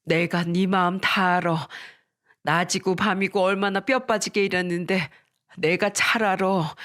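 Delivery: slowed, tender consoling; soothing comfort. Acted. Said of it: "안아주면서 다독이며 말씀하셨습니다".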